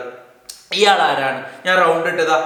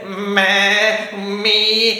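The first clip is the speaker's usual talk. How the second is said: goat bleat; much slower than usual. Shown as a demonstration. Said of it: "കബിഷ് എങ്ങനെയാ കരയുന്നേ?".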